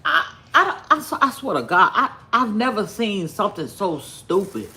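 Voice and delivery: laughing through the words; can't hold back the laugh; disbelieving laugh. Real, not acted. Laughing at the clip.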